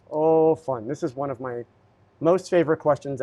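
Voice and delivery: dryly sarcastic delight. Real, not acted. Live streamer greeting a recurring question, sarcastic. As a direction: feign pleasure at a dreaded question. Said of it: "and I'm being sarcastic".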